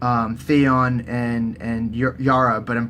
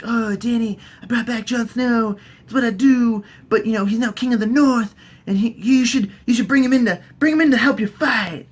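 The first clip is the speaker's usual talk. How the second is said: higher-pitched mock priestess; Red Woman; 7 semitones higher than usual. Red Woman advising Dany about Jon, higher put-on voice. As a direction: pitch it up, lightly pleased with yourself. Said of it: "the Red Woman comes all in here".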